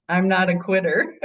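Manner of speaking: says it with a laugh; laughing through the words. Real, not acted. Laughing as she says the motto.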